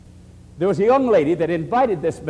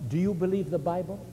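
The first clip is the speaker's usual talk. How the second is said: soft, kindly pastor's question; retold kind counsel, softly put; 6 dB quieter than usual. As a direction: ask it gently, voice lowered. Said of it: "very kindly he said to her".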